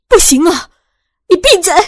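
loud, high desperate shout; shouting at brother. A narrator's reading. Sister shouting her brother down, loud and desperate. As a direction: yell him into silence. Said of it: "大声对着自己的弟弟喊了起来".

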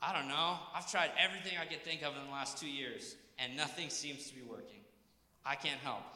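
quiet, deflated voice, a touch of giving up; quietly defeated, imitating a discouraged leader. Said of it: "Discouraged to say".

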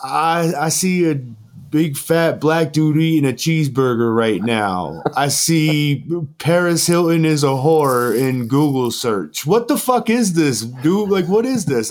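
high, slow, half-laughing disbelief; voicing a friend reading a prank video, high and incredulous; amused disbelief. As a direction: read it out like you can't believe what's on screen. Max reads the prank video aloud.

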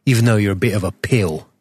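lightly put-on London accent; mock London accent. Podcaster claims his co-host as brother, in mock London accent. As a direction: play at a Cockney lad. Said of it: "my Jason Statham sort of London thing".

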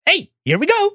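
very high, loud cartoon plumber voice; Mario. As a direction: squeal it like a cheery video game hero. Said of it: "in a Mario voice, they go".

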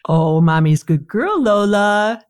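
put-on high, slow baby talk to a puppy; squeaky praising a dog. Shown as a demonstration. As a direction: coo up high to your beloved dog. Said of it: "Lisa, how about you".

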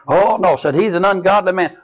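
high, fed-up voice of a nagging wife; exasperated wife. Retold or imitated. Wife complaining to the preacher about her husband, in a high mock whine. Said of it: "I said".

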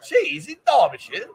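high, drawn-out amused disbelief; incredulous. Real, not acted. Host doubting co-host's cheese answer, amused incredulity. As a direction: question it slowly, voice leaping up with a laugh.

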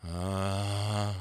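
moan demo. Shown as a demonstration. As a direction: moan like you're in pain. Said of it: "How about this one?".

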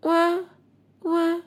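soft little "wah" cries; small, mock newborn wail; baby wail. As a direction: imitate a baby crying quietly. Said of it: "And Krishna said".

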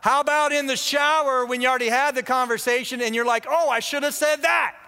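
retold heckle. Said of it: "He yells out".

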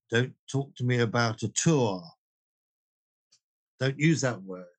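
mildly grumpy teacher's admonishment; slightly grumpy. Retold or imitated. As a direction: grumble lightly at your students, mock-stern. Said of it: "with a slightly grumpy voice".

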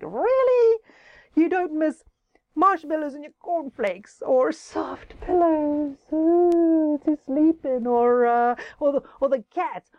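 can't believe he misses school; amazed disbelief. Acted. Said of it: "Jemima and Jack looked at him".

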